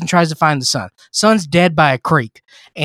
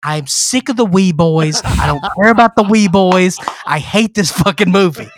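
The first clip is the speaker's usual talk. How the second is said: exasperated rant; 4 semitones higher, 4 dB louder than usual. Real, not acted. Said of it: "exasperated rant".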